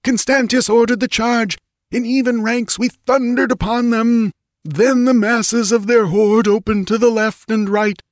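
high, frantic battle report; yelling. A narrator's reading. Wounded priest tells the queen of the rout, yelling. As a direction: keep it pitched high and desperate throughout. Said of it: "yelled the priest".

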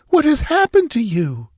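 high, tearful plea; a high sobbing question to wounded Conan. Acted. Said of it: "she sobbed".

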